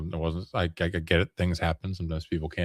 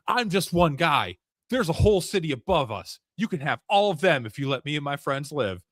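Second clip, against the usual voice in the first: put-on pleading kid; 7 semitones higher than usual. Kid bargaining with demon.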